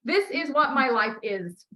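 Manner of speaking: slow and certain; slow declaration. Shown as a demonstration. Coach modelling the final wording, slow and certain. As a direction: state it as settled fact. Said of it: "there it is".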